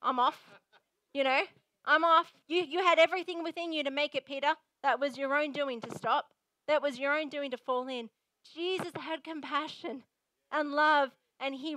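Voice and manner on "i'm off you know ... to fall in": disgusted, dismissive. Pretend. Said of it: "he didn't stand back here and say".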